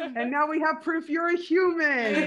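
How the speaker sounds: real laughing delight; laughing cheer. Real, not acted. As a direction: celebrate through laughter. Laughing celebration.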